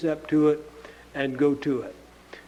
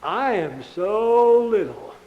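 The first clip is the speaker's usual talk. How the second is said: slow, small voice of timid spies; mock timid Israelites. Preacher mocking the spies who saw the giants, timid and small. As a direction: shrink into a timid little voice, lightly mocked. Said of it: "they just looked up at 'em and they said".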